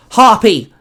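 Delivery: loud, high cry; called out. Acted. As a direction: shout the name out. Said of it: "Aisha called out".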